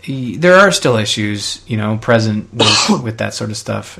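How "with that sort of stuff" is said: coughing mid-sentence; coughing fit. Real, not acted. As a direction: cough breaking into the words. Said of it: "I apologize for coughing".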